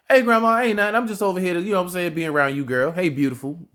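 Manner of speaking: cheerful greeting to grandma. Retold or imitated. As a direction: act out strolling in to see grandma, all sweet talk. Voicing himself greeting grandma.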